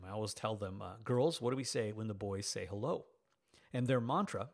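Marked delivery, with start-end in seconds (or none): 1.0-3.1 put-on playful sing-song quiz to the girls; teasing dad quiz. Dad teasing his daughters, playful quiz voice. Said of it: "I always tease them".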